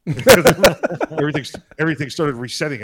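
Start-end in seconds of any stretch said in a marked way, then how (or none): 0.1-1.4 drawn-out laughing word, much louder and higher. Real, not acted. Laughing as he recalls the room going nuts, slow and loud. Laughing retelling Siri chaos.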